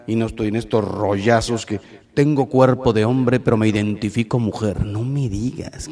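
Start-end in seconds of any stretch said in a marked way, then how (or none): 4.9-5.9 sarcastic dismissal. Real, not acted. Sarcastic reply to claim.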